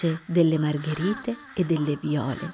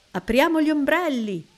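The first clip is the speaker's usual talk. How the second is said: adults calling out; 8 semitones higher, 6 dB louder than usual. A narrator's reading. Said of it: "urlano i grandi".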